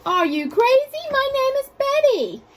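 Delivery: high, loud indignant outburst; furious monster. Acted. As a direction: snap back, outraged at the mix-up. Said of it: "with a furious gaze".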